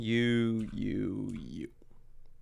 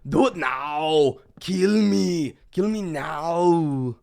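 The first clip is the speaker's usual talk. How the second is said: loud, high, desperate shouting; imitating a frantic yell of do it, kill me; 6 semitones higher, 8 dB louder, much slower than usual. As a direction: scream it like someone begging to be killed. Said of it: "whenever there's a person saying".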